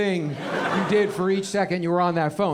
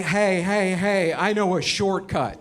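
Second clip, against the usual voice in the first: lightly acted drunk buddy, dragging the words; slow, tipsy know-it-all giving directions; hammed-up drunk with a bright idea; drunk friend; slower than usual. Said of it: "Waze is your drunk friend".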